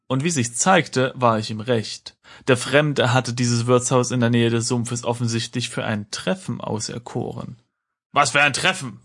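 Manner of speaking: steady storyteller reading with voiced characters; story narration. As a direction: read the adventure like an audiobook. Reads adventure text aloud. (Vorleseton einer Erzählung)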